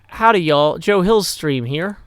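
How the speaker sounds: loud country howdy, slowed at the end; cowboy greeting. Shown as a demonstration. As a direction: holler it like a friendly cowboy. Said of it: "you say".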